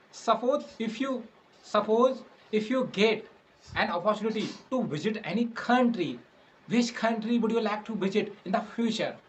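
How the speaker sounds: slow question in short, separated chunks; slow, careful speech. Real, not acted. Interviewer asking a learner about travel, slow and careful. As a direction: speak slowly so a learner can follow. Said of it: "trying to speak very slowly".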